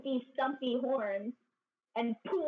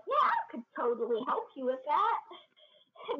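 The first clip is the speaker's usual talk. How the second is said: eager offer; 4 semitones higher than usual. Retold or imitated. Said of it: "so Taylor's all like".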